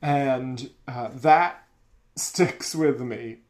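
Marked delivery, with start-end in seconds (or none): none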